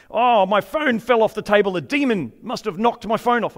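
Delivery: put-on American accent. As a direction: play a fretful American in a light American accent. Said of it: "got into American accent again".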